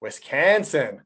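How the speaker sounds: slow, drawn-out mock Wisconsin accent. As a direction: stretch it like a playful Wisconsin local. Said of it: "I have the Wisconsin accent".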